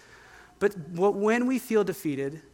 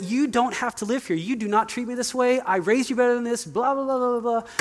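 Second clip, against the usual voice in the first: higher-pitched mock tirade at a son; retold angry outburst; 5 semitones higher than usual. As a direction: act out the dad losing it at his teen. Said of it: "and I am boiling".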